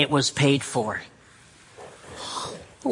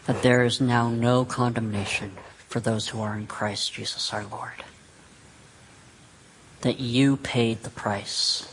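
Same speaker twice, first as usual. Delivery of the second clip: prayer. Real, not acted. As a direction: pray aloud, phrase by unhurried phrase. Leads a closing prayer.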